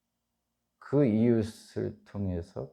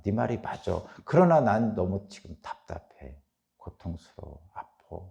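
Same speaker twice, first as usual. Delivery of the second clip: retold lament. Preacher voicing Job's pain before God, fading lament. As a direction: let Job's protest fade into pained resignation. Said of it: "한탄하는 거예요".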